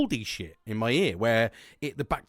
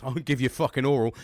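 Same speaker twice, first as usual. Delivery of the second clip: suggestive, a bit louder; cheeky innuendo; 4 dB louder than usual. Shown as a demonstration. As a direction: lean into the dirty joke. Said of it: "See, I went straight there".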